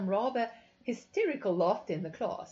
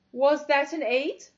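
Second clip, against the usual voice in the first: loud, higher demanding question; 7 semitones higher, 9 dB louder than usual. A narrator's reading. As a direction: demand an answer sharply. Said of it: "she demanded".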